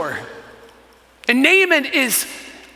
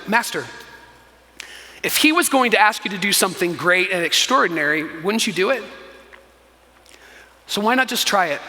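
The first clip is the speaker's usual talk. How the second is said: gentle reasoning; 4 semitones lower, 3 dB quieter, faster than usual. Retold or imitated. Servant persuading his proud master to try the river, gentle reasoning. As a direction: lower voice, measured pauses between appeals.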